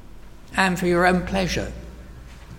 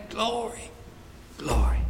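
hushed glory; 4 semitones higher, 9 dB quieter than usual. Acted. Awed worship before Christ.

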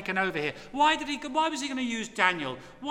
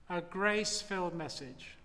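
soft echo; 5 semitones lower, 8 dB quieter than usual. Acted. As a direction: repeat grace-filled message much softer and lower. Preacher repeats phrase as echo.

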